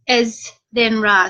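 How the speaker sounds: Iz, then Ra split into two slow parts, "IZ" then "RUH"; syllable by syllable. Shown as a demonstration. Author reading out how to say the viewer's name, slow and split. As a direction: spell out the sound of the name slowly. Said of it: "I'll help you".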